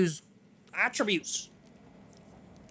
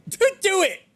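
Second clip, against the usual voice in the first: high, loud laughing plea; half-laughing, yell at him to stop; laughing mock plea; 14 semitones higher, 6 dB louder than usual. Pleading with man holding noose.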